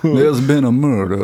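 lightly hammed-up Southern accent; mock a Southern gentleman's accent. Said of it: "where they talk like this".

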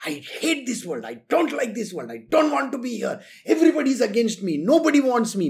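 hammed-up complaining, rushing toward the end; mock a sulking quitter; mock whining self-pity. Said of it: "People have this habit of talking like this".

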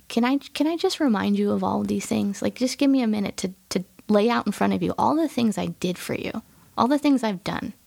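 gently earnest request; understated sincere appeal. Retold or imitated. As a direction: ask it sincerely, at an easy conversational pitch. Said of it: "asking in a very sincere tone".

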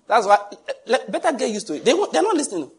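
high laughing exclamation; preacher laughing to the congregation. Real, not acted. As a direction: laugh while driving the point home.

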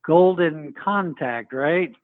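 slow, dry sarcastic jab; slow mock-approving sarcasm. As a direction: drag it out with mock praise. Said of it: "as sarcastic a tone as I could rev up".

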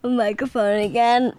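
slow, giggling confession; laughing. Real, not acted. Kid admitting to dad she hit the mic, laughing. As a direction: laugh through every word.

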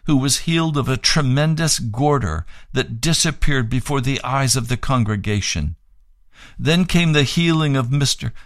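measured read-aloud narration; formal testimony reading. Acted. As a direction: read the written account out evenly and clearly. Reads a written testimony aloud.

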